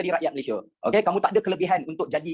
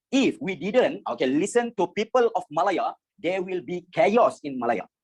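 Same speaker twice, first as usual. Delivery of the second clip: quoting officials; much slower than usual. Retold or imitated. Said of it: "dia cakap".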